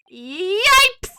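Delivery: high, loud character yelp; startled high squeal. Acted. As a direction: yelp it in sudden fright. Game character startled by lawyer.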